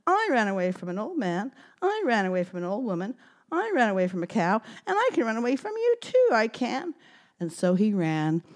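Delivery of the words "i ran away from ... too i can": gingerbread man voice. Acted. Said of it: "said the gingerbread man".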